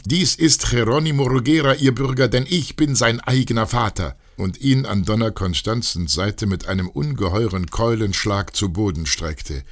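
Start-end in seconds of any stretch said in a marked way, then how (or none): 0.0-4.2 a high, loud call out of the crowd; shouting from the crowd. Acted. A father in the mob denouncing Jerónimo to the citizens, loud and high.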